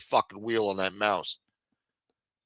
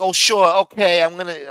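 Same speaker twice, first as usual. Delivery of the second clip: mock attentive host; 7 semitones higher, 10 dB louder than usual. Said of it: "so, like, attentive to what he needs".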